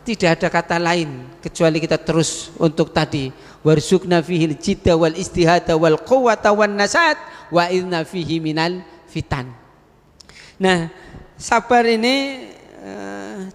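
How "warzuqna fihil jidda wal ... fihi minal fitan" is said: recited Arabic supplication; prayer recited in the middle of a sermon; Arabic prayer recitation. Acted. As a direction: intone the prayer.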